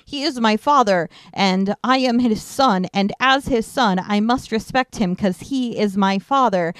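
mildly stilted, over-literal line reading; stilted translated dialogue. Retold or imitated. Podcaster mocking an awful movie translation, lightly stilted. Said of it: "the translations were awful, and it was like".

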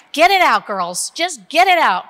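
rally the women to let it out; urging shout. Shown as a demonstration. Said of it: "scream, go right ahead".

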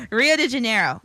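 "Rio de Janeiro" with rolled Spanish flair, "de" as "di"; Spanish accent. Shown as a demonstration. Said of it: "I needed to say it in my Spanish accent".

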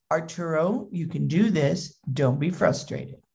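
soft, steady self-talk; lightly acted calm reassurance; patient dad. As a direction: imitate a father calming himself. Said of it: "how patient you were with him".

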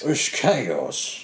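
loud, excited announcement; hyped-up shout. Pretend. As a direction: sell it like a trailer. Hyping Statham movie title.

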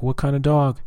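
high-pitched questioning neighbor; imitated neighbor woman. Neighbor asking owner what kind of dog, high imitated voice. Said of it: "she's like".

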